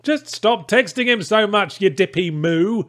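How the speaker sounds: high, slow exasperated scold. Acted. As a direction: talk down to her slowly. Scolding the character.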